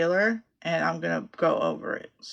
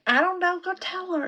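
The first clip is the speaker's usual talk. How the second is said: 1 mocking retort; 12 semitones higher than usual. Retold retort to husband.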